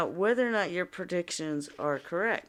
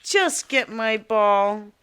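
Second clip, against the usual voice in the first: bossy order; 5 semitones higher, 5 dB louder, much slower than usual. Acted. Princess ordering the frog.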